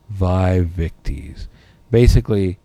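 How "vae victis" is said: slow, low gloating Latin; gloating chieftain. Retold or imitated. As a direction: savour each word like a victor. Repeats the chieftain's taunt.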